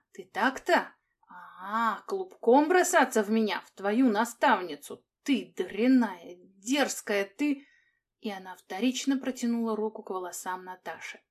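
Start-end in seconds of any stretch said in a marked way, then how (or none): 0.1-7.7 loud furious rebuke; angry scolding. Acted. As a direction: scold the pupil in rage. Teacher scolding the girl.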